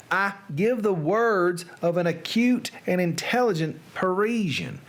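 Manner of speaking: put-on Southern narration; Southern accent. Reader resuming Poe's tale after a mouthful, Southern accent. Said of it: "in a Southern accent".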